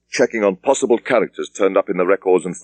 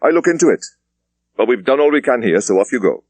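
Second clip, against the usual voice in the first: brisk senior officer, voice raised higher; a superintendent dismissing his junior; police superintendent; 5 semitones higher than usual. Acted. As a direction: wrap it up with brisk authority. Thomas dismisses inspector.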